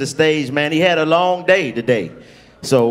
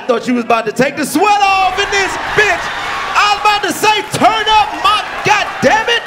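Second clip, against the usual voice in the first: much higher, yelling with hype; excited high shout; 14 semitones higher than usual. Real, not acted. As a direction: shout it up like the crowd just exploded. Host hyping the arriving comic.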